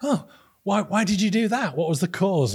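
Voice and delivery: imitating the vice-chancellor. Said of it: "And he went".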